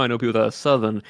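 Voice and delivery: "Southern" with dropped R, Southern accent. Shown as a demonstration. Showing co-host how the accent takes over, Southern accent. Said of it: "I just start talking like that".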